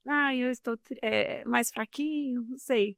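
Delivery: understated demo of feeling feeble; weak, sad tone. Shown as a demonstration. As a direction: say it a little weakly, dragging the last words. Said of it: "se o meu tom de voz está triste".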